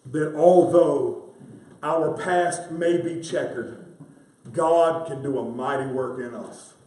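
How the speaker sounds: slow, deliberate preaching emphasis; spaced out for weight; slow emphatic. Real, not acted. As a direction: lay each phrase down slowly. Preacher slows key truth.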